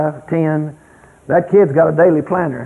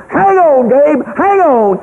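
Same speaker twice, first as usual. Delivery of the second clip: much higher, louder urgent yell, last words stretched slow; screaming; 8 semitones higher, 3 dB louder, much slower than usual. Retold or imitated. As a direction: yell at him to hold on tight. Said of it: "I was screaming".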